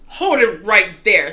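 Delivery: loud, firm order; police command. A narrator's reading. Policeman halting the fleeing burglars with a loud order. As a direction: stop them in their tracks.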